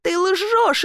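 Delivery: high-pitched furious cry; shouting. Acted. Younger sister shouts at Elif, high and furious. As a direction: scream the accusation at her sister. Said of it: "крикнула девушка".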